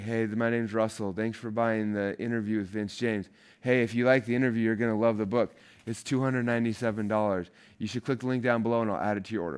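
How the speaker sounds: a hint of his dorky younger self reading a sales pitch; his awkward old self. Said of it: "I honestly sounded like that".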